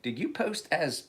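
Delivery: high, slow mock interrogation of a troll; imagined accusing question. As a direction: drag each word out like a menacing interrogator. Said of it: "Or it's like".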